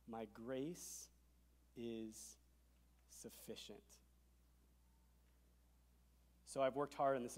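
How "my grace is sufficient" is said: fading to a whispered sufficient; slow, dropping to a breath; hushed whisper. Shown as a demonstration. Pastor quoting Jesus tenderly, fading to a whisper. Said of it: "here it is, I love this".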